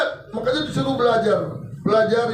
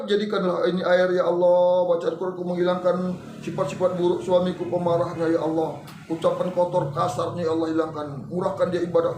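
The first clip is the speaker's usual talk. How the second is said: low-pitched supplication; model prayer; 4 semitones lower than usual. Shown as a demonstration. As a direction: recite a wife's plea to Allah. (doa istri dengan suara rendah)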